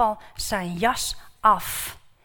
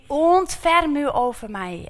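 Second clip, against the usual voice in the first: raised, higher call for mercy; pleading cry; 5 semitones higher, 7 dB louder than usual. Acted. Bartimaeus begs Jesus for mercy, raised pleading cry. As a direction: beg loudly across the crowd.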